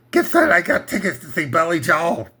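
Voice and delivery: lightly voiced singer impression, a hint of his singing voice; impression of a singer. Comic host doing his impression of a singer. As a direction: loose take on the singer, barely changed. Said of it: "my imitation of a singer".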